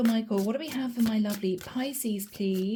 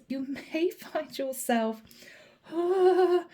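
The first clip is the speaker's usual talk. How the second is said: laughing; 6 semitones higher, slower than usual. Real, not acted.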